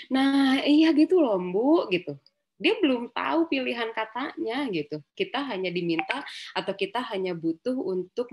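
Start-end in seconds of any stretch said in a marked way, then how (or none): 0.1-1.9 emphatic agreement. Retold or imitated.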